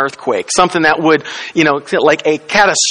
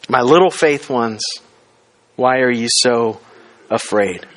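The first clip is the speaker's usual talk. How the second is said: gentle quote; 4 semitones lower than usual. Retold or imitated.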